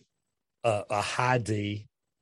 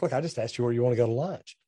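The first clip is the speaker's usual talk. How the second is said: impatient; faster than usual. Retold or imitated. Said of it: "I'm sitting here thinking".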